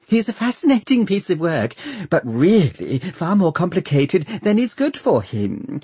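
high, chattering doctor; fluttery high voice with a little giggle; twittering. A narrator's reading. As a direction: prattle eagerly about a pet project. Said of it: "twitters the doctor".

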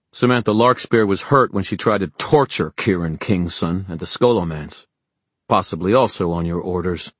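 measured, forceful accuser; Julian, accusing. Acted. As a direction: lay out the charge firmly. Story figure accuses.

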